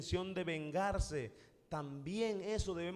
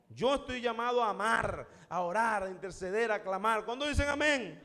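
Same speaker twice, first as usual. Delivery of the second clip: raised, emphatic preacher's voice; fervent preaching; 2 semitones higher than usual. Real, not acted. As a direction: preach it firmly to the whole congregation. Preaches at full force to congregation.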